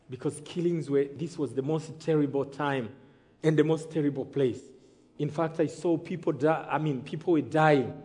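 low, soft recollection with pauses; hushed, grave storytelling; sombre testimony. Real, not acted. Sombre telling of the killings.

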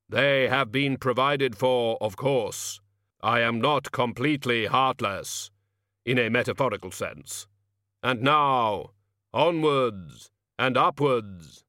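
solemn measured reaper, slow; grim reaper voice. Acted. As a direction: Death calmly explains himself. Death answers Albert.

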